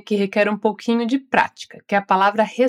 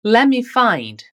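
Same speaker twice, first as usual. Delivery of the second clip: slow, careful model phrase; much slower than usual. Shown as a demonstration. English teacher modelling the phrase slowly for the student. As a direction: sound out each word slowly. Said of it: "você já sabe como pronunciar direitinho".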